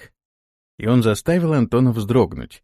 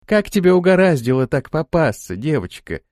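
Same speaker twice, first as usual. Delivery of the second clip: reproachful; 4 semitones higher, 4 dB louder than usual. Acted. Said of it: "укоризненно спросила Франси".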